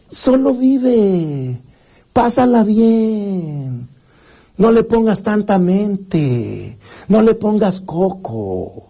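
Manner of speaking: drawn-out, slow carefree slogans; carefree urging. Acted. Timón and Pumba teaching Simba to just live, carefree and drawn out. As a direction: stretch the words out lazily, living without worry. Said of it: "le enseñan que hay que vivir".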